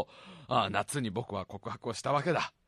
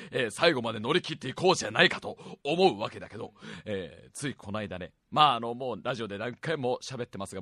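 smoker's rasp. Real, not acted. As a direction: push through a raspy throat. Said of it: "聞き苦しくて申し訳ないけど". (枯れたかすれ声)

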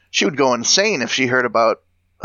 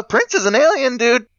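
excited exclaim; 11 semitones higher than usual. Real, not acted. Joking conclusion about a singer.

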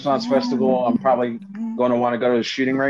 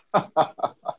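sinister chuckle under the breath; evil villain laugh; 3 semitones higher, 5 dB quieter than usual. Real, not acted. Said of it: "you sound like an evil villain when you laugh".

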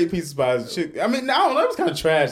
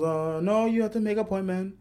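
soft, higher imitation Asian accent; mock Asian accent; 3 semitones higher, 5 dB quieter than usual. Salon lady turns away a walk-in customer, imitated Asian accent. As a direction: put on a light Asian accent, softly. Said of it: "I'm only doing the Asian voice".

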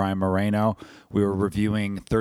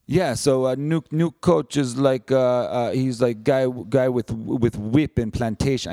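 halting, hammed-up Russian accent; clumsy imitation of a Russian accent; bad Russian accent; 3 semitones higher, slower than usual. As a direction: attempt a funny Russian accent, badly. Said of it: "he said it in such a funny Russian accent".

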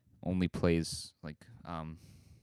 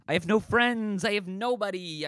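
mock self-pity; 9 semitones higher than usual.

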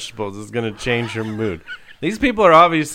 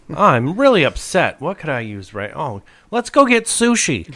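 high, silly mock-upset voice; hammed-up sulky person wanting sushi; 3 semitones higher than usual. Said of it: "in a bad mood is gonna go like".

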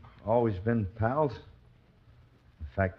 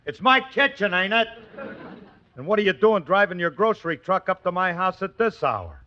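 squeaky ventriloquist dummy; 9 semitones higher, 6 dB louder than usual. Acted. Dummy voice indignant.

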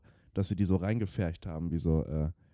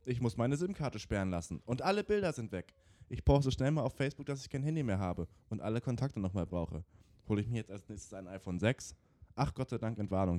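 mock panic; 3 semitones higher than usual. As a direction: act a frantic phone panic. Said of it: "Panikausbrüchen wie diesem".

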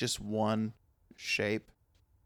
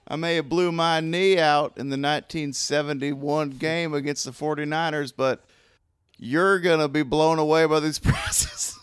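hyped car ad pitch. Pretend.

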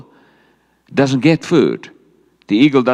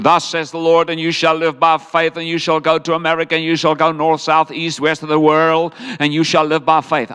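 prophetic declaration; 4 semitones higher than usual. Retold or imitated. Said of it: "Roger Teal came to me and said".

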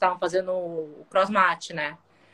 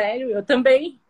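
high and loud, thrilled; retold excited me too; excited reply; 5 semitones higher, 3 dB louder than usual. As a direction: answer with happy disbelief. Her reply to the same news.

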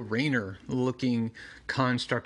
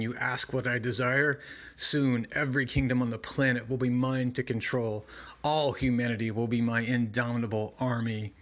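lightly voiced ancient monster; a hint of a menacing demon. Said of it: "doing monster voice".

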